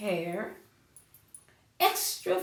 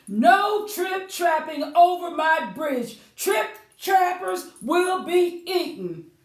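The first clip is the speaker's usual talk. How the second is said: louder, higher warning; stern sign; 5 semitones higher, 5 dB louder than usual. Acted. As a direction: read the notice like a threat. Reading the troll's sign.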